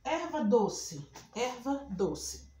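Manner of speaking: "erva doce" slow, its two words set apart; slow dictation. Shown as a demonstration. Teacher showing a compound word, "erva doce" slowly dictated. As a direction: dictate "erva doce" at half speed, falling at the end. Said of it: "Se eu falo assim".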